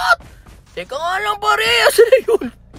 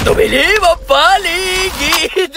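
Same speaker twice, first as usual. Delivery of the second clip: dramatic announcer; 2 semitones higher, much slower than usual. Pretend.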